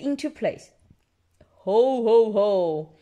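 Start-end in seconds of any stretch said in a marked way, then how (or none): 1.6-2.9 loud, spoken "ho ho" chuckle; hammed-up jolly chuckle; chuckling. A narrator's reading. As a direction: chuckle heartily as a storybook dad. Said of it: "chuckles Daddy Pig".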